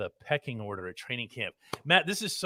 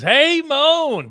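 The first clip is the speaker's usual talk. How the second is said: put-on failed British accent; 14 semitones higher, 9 dB louder than usual. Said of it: "I can't do it in a British accent".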